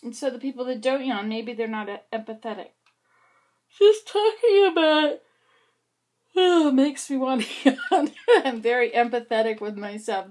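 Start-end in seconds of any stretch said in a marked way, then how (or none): 3.8-8.1 slow, loud and high, breaking into a laugh; laughing yawn. Real, not acted. Talking about yawning, starts laughing. 8.4-10.3 joking through a laugh; amused at herself. Real, not acted. Joke about yawning herself.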